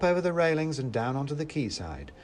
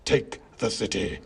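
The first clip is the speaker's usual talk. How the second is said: rally the troops as a villain; understated villainous scream; Mouse King screaming; 2 semitones lower than usual. A narrator's reading. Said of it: "screamed the Mouse King".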